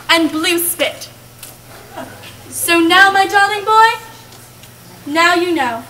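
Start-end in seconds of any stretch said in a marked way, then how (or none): 3.1-5.1 slow, tender. Acted. Slow fond address.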